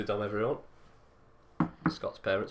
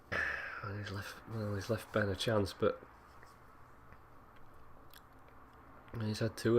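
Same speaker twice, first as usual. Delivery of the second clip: radio voice; 3 dB quieter than usual. Acted. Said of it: "Put my radio voice on".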